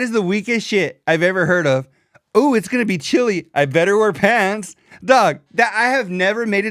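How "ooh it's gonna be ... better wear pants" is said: lightly mock-prissy, a bit higher; mocking wimpy voice. Host mocks a pants-wearer's fussy worry, lightly mock-prissy. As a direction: mimic a fussy guy fretting about the cold. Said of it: "I don't know why he has to say it like that".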